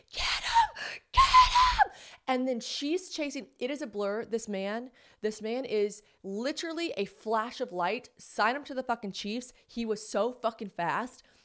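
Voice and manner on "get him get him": very high, full-volume, slow, drawn-out shrill scream. Retelling a chase in a restaurant, imitating someone screaming. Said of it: "she's screaming".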